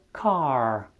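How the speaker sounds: car with no R and a long vowel, "kaah"; British car. Shown as a demonstration. Teacher showing British car, R dropped, long vowel. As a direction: drop the R in car and stretch the vowel. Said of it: "R este foarte slab pronunțat".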